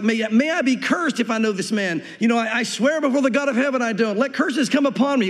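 rising, insistent oath; sworn self-curse. Acted. Peter calls curses on himself, insistent swearing. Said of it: "He was cursing, saying things like".

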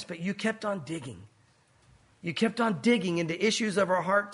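closing prayer, earnest and steady. Acted. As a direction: pray over the congregation. Pastor leads closing prayer.

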